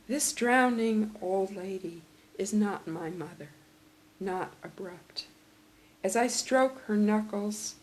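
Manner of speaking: measured, deliberate poetry recital; poem reading. Acted. Reads a poem aloud.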